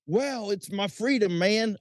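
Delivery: high, slow lazy stoner; imitating a dopey pothead. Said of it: "they will say".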